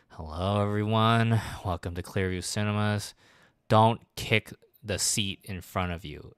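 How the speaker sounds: slow, reluctant deadpan announcement; sulky coworker who hates the mic; mildly grumpy, dragging the words; grumpy announcer. Retold or imitated. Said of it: "really grumpy about it".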